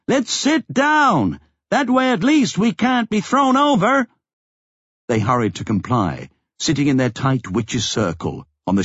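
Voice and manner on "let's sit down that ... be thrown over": high, raised shouting voice. A narrator's reading. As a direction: call out urgently to the group. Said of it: "Stan shouted".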